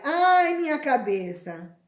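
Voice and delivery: loud sudden cry of head pain. Acted. Preacher voicing the boy crying to his father, loud pained cry. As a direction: cry out like a sick child clutching his head.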